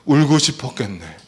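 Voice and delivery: gentle "울고 싶었겠네" with stress on "울고"; empathetic phrase demo. Shown as a demonstration. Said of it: "따라해보세요". (위로하듯 "울고 싶었겠네")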